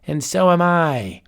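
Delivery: a mad sorcerer toying with his guest; chuckling old warlock; old wizard. Acted. Wizard character speaks.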